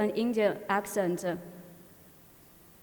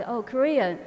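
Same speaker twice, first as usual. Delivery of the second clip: mild surprise, a little louder; retold surprise; 3 semitones higher, 5 dB louder than usual. Teacher hearing a pupil use Korean, mildly surprised. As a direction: lightly act out a surprised reaction. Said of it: "the teacher was surprised".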